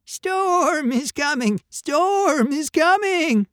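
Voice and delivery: very high, slow sheep bleat. A narrator's reading. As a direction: bleat the alarm, stretching the words. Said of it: "the sheep bleated".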